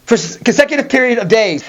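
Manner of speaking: put-on high, eager kid voice; excited kid. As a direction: act like a kid thrilled to game all day. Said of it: "You're like".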